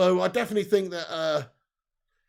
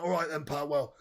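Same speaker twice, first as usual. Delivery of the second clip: Sean Dyche impression. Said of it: "Do the Daichi accent".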